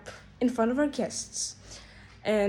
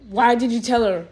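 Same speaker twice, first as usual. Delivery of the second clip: snapping grandma; 5 dB louder than usual. Retold or imitated. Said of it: "she, like, snaps at me".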